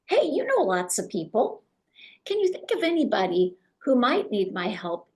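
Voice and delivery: open, inviting, eager offer to help; passionate and helpful. Shown as a demonstration. Agent inviting a contact to send referrals, warmly eager. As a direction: sound genuinely glad to take their referrals. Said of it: "Come from that passion of".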